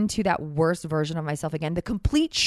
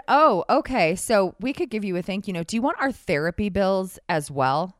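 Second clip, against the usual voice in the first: biting edge. Retold or imitated. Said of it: "the edge to my voice".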